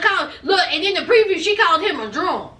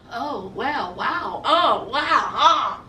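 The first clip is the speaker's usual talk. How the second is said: mocking Mike; 5 semitones lower, much slower than usual. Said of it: "talking about".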